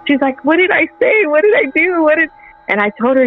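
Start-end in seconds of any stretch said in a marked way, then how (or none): 0.4-2.3 high-pitched, rapid-fire retold questions; mock innocent confusion; bewildered questioning. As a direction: imitate a clueless sister asking what happened. Acted sister's bewildered reply in quarrel.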